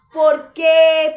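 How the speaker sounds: sudden loud, rising plea; loud cry of why. Acted. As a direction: throw the why out in a loud burst. Preacher voicing David to his soul.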